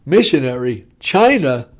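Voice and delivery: lightly imitated exasperated wife; mock disbelief turning into a telling-off; incredulous scolding. Woken wife to drunken husband, mildly exasperated.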